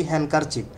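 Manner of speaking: হ্যান্ডকারচিফ with silent d; the correct way, no d; right way. Shown as a demonstration. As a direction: say হ্যান্ডকারচিফ as hankerchief. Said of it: "বলি".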